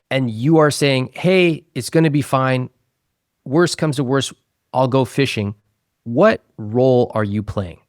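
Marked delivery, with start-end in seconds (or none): 1.1-5.5 higher-pitched easygoing brush-off; light, lifted mock reassurance; reassuring. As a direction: imitate someone breezily soothing a worried partner. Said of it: "trying to reassure her".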